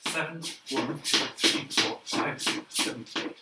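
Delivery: breathy counts while dancing; half-whispered counts between steps; dancing while talking. Real, not acted. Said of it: "I can't talk and dance at the same time".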